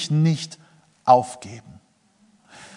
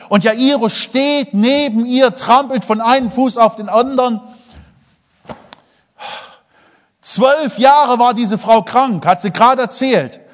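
excited; 8 semitones higher, 6 dB louder than usual. Acted. Impatient Jairus narrated excitedly.

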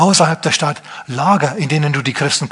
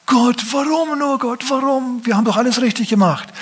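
mock whining lament; 9 semitones higher than usual. Mocking complaining Christians crying out to God, high whining lament. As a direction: whine up at God like a wronged believer. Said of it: "Die haben nicht gesagt".

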